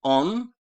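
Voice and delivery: "On" said high and loud, o held; loud stressed o. Shown as a demonstration. Teacher contrasting stressed o with Russian a, loud. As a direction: call out "On" sharply. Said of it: "Kıyaslayınız".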